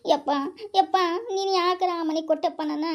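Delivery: sobbing as she pleads with her father; tearful plea to father, voice wet with crying; crying complaint. Acted. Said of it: "ಅಳ್ಬಾರ್ದವ". (ಅಳುತ್ತಾ ಅಪ್ಪನಿಗೆ ಅಳಲು ತೋಡಿಕೊಳ್ಳುವುದು)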